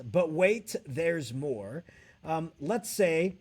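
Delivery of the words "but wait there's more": infomercial catchphrase. Pretend. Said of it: "But I always like to do this".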